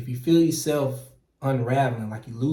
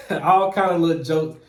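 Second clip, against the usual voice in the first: real chuckle breaking into the words; laughing now; 4 semitones higher, 5 dB louder than usual. Real, not acted. Recalling coworkers' jokes about him, laughing. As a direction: laugh while recalling the teasing, higher voice. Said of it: "I'm laughing now".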